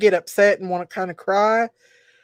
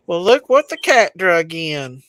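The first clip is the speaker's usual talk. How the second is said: louder, mock-scolding welcome; teasing welcome; 3 semitones lower, 5 dB louder than usual. Real, not acted. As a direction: tease her for showing up. Greeting Big Mama arriving.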